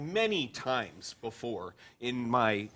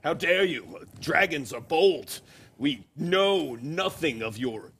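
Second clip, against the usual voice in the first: mock outrage; 2 semitones higher than usual. Kobold offended by the insult.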